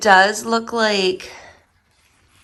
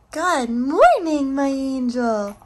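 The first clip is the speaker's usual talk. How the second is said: high, slow cooing; 5 semitones higher, slower than usual. Real, not acted. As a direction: coo it to a beloved pet. Cooing to the dog.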